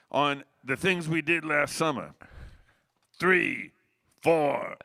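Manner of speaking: counting off loud. Retold or imitated. Freddie counting off the tune.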